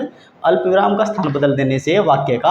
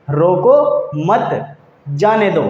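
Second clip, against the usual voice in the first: very slow रोको मत, pause, जाने दो; pause after मत; much slower than usual. Shown as a demonstration. Teacher repeating the moved comma example, slow with pauses. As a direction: spell out रोको, मत, then जाने दो, slowly with breaks. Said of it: "अल्प विराम की स्थिति को बदल देंगे".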